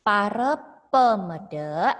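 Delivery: Pare pemede with final a read as e, loud; Balinese pronunciation. Shown as a demonstration. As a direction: show the right reading Pare pemede. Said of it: "tapi dibacanya pare". (Pare pemede dibaca dengan bunyi e)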